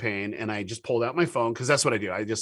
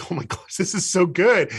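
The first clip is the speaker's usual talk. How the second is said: excited son; 7 semitones higher, 4 dB louder than usual. Retold or imitated. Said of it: "And he goes".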